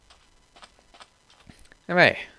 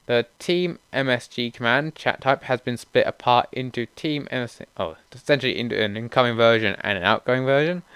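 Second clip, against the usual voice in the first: read-aloud update notes; 2 semitones higher than usual. Real, not acted.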